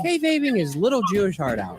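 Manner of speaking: little leaned on a touch harder; stress on little. Shown as a demonstration. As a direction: give the word little a mocking push. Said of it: "Emphasis on little".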